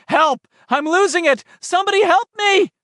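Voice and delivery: high, loud panicked pleading; desperate cry for help. Acted. Richie's voice bursting into Eddie's head, panicked shouting. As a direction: shout it as you slip away. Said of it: "Richie's voice burst clearly into his head".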